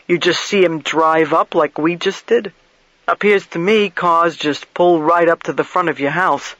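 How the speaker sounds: lightly voiced plain-spoken investigator; blunt investigator. Investigator questions motel keeper about the guest's arrival, lightly voiced blunt questioning. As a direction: put mild push into the questioning.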